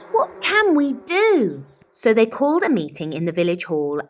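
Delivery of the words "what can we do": high, loud desperate cry; villagers crying out. A narrator's reading. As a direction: cry out for help as a whole village. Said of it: "till the villagers cried".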